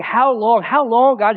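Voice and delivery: mildly acted cry for an answer; pleading. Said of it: "He is pleading with God".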